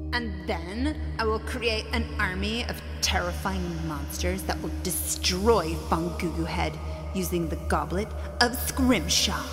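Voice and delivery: echoing evil villain speech; grand dark lord monologue; booming echoing villain monologue. Acted. Villain's evil monologue, named line 58.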